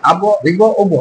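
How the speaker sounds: আব ইব উব with a sharp bounce on the final ব; bounced qalqalah. Shown as a demonstration. Teacher showing students the qalqalah bounce on আব ইব উব. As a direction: push out each ব with a little jolt. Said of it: "এরকম।".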